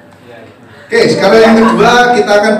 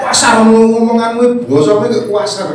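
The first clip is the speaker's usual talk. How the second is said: imitating Javanese; 3 semitones higher than usual. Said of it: "Orang Jawa lain kalau dengarkan".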